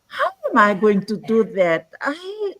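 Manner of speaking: high-pitched retold self-doubt; imitating a worried beginner's wail; anxious wondering. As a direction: replay your old panic, pitch climbing high. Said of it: "I used to wonder".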